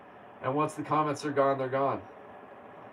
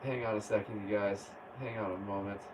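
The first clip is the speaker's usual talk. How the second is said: soft, lower aside; quiet aside; 7 semitones lower, 9 dB quieter than usual. Real, not acted. Asking viewers to wait, quiet and low. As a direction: step away from the mic. Pausing the stream.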